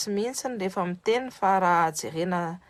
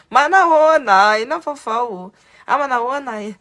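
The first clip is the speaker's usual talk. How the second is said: loud, bright hello, raised pitch; cheerful loud greeting; 5 semitones higher, 10 dB louder than usual. Retold or imitated. Mother hailing a stranger who looks Malagasy, excited greeting. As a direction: greet a stranger like an old friend.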